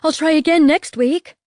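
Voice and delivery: high, loud desperate promise; frightened. A narrator's reading. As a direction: beg to be spared. Boy begs after being hit.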